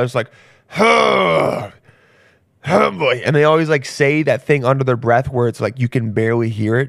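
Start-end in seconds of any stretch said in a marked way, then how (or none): 0.7-3.2 loud, high, creaky put-on old-man groan, huh stretched. Imitating old guys getting out of a car: imitating old guys groaning loudly. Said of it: "old guys love to scream whenever they get out of a car".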